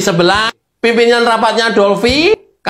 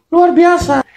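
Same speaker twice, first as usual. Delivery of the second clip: sarcastic exclamation; 8 semitones higher, slower than usual. Acted. Mocking PDIP's turnaround.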